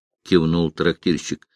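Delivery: ordinary delivery, nothing marked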